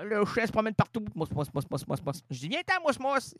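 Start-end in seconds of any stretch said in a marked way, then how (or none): 1.2-3.3 calling a dog. Pretend.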